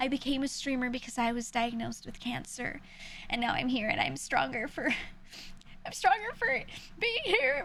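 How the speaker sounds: exaggerated fake sad voice, laid on thick, full tilt. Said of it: "I act really sad about it".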